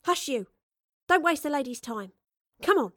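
loud, high impatient scolding; sharp motherly hushing; fed-up mother. Acted. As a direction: hustle the child along crossly. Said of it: "her mother had had enough".

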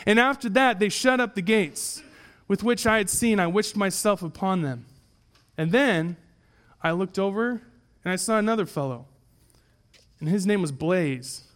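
measured, declamatory storytelling from the pulpit; stately dramatic reading; allegory reading. Acted. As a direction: read the old tale aloud with solemn lift. Reads an allegory aloud to congregation.

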